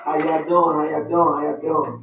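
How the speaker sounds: rally the crowd with a loud hey; hearty loud greeting. Real, not acted. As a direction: call it out to the room, loud and warm. Host greets audience, calling out.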